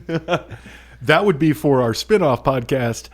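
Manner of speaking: laughing through the words; chuckling while talking. Real, not acted. Laughing rebuttal.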